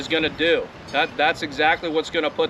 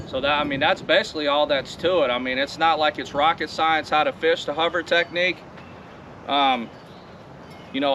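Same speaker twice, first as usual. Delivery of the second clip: talking over wind noise; recorded outside in wind; windy outdoors. Real, not acted. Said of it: "it's awfully windy out here".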